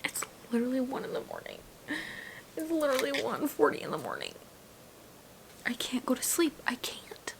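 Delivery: hushed whisper, sleepless; tired midnight whisper; exhausted whisper. Real, not acted. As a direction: whisper like lying in bed.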